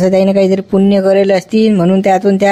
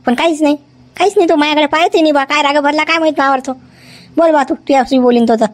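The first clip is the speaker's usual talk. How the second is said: lament; 7 semitones higher than usual. Acted. Woman laments silent patient.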